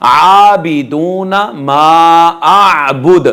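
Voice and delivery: आबुद closing on a bounced d; slow recitation, long vowels, echoed d in आबुद; qalqalah ending. Shown as a demonstration. Teacher reciting the verse ending, qalqalah ending. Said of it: "आबुद के आखिर में कलकला होगा".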